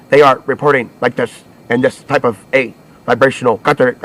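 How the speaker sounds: flat, even newscaster drone; monotone voice. Retold or imitated. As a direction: read it in a dull monotone. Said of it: "reports in a monotone voice like this".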